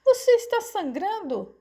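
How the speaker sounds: high, alarmed question; very high anxious mother; shocked worry. A narrator's reading. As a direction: ask in rising panic about your son. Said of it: "preocupou-se a mãe".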